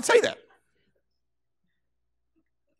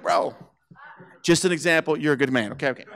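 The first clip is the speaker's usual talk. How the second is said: placating backpedal; 3 semitones lower than usual. Retold or imitated. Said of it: "Lem's like".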